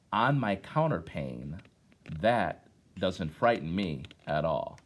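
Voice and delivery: put-on slow, measured poetry reading to children; poem recitation. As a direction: let each line land with a pause. Reads poem to class.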